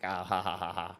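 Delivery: quiet mock chuckle. Player noticing the parody names, soft low chuckle. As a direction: chuckle under your breath at the joke.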